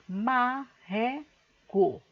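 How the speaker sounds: "marreco" slow, as ma, rre, co; syllable by syllable. Shown as a demonstration. Teacher giving the next word to classify, "marreco" syllable by syllable. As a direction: split "marreco" into three spaced syllables.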